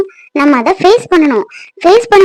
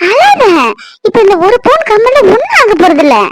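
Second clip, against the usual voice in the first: tearful; 3 semitones higher than usual. Acted. Wife tearful while comforting him.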